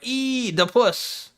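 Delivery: mock excited shout of Oedipus, slow and stretched. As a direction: imitate hyped people blurting it out. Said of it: "They get excited".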